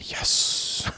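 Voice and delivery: soft whispered yes; fans whispering yes. Retold or imitated. Players swooning over a new survivor: whispered yes. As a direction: breathe a longing yes. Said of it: "everyone's like".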